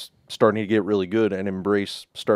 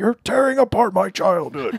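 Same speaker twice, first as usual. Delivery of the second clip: shrill, very high screaming; 11 semitones higher, 4 dB louder than usual. Describing how a fandom review came out: mock screaming. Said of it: "sounding like I was just screaming".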